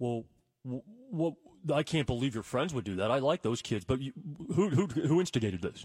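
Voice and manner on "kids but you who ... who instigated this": normal talking voice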